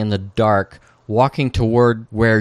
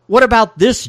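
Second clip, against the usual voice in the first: acted defiance; 11 semitones higher, 6 dB louder than usual. Defiant line retold.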